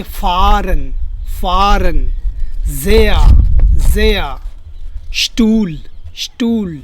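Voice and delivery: फारन, ज़ेया, स्टूल with drawn-out vowels; long vowels. Shown as a demonstration. Teacher drills silent-h words, long vowels in फारन, ज़ेया, स्टूल. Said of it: "long sound बोलता है".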